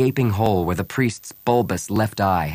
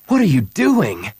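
higher, louder challenge; indignant demand; 7 semitones higher, 5 dB louder than usual. A narrator's reading. Han swinging round to confront Bria, indignant. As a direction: confront her, voice jumping up.

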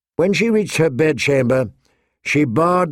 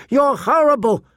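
mild acted scream; 11 semitones higher than usual. A narrator's reading. Girl with ruined dress at her sister, mildly screamed. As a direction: cry out in restrained narrated fury. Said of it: "she screamed at her sister".

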